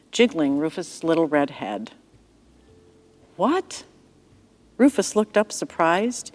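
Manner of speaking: gentle storyteller reading a bible story; story narration. A narrator's reading. Narrator telling a child-friendly story to listeners. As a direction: read it like a bedtime tale for children.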